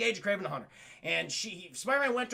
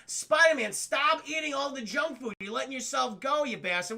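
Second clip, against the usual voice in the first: mock scolding; 5 semitones higher than usual. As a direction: scold him in a raised voice.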